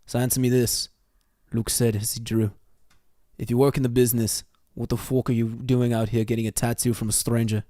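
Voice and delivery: attempted British accent drifting towards Scottish; bad British accent. Shown as a demonstration. Reader obliging a request for British, in a bad British accent. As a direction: read it in a poorly done British accent. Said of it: "read the whole thing in a British accent".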